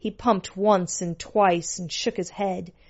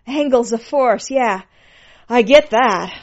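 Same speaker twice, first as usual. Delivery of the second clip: loud, higher-pitched delight; high, eager character voice; excited pet; 4 semitones higher, 8 dB louder than usual. A narrator's reading. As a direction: exclaim it in impassioned realization. Pet speaks excitedly in scene.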